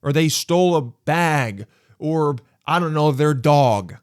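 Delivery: high, emphatic exasperated rant; indignant complaint, hammering the key words. Acted. Exasperated rant about the petty theft.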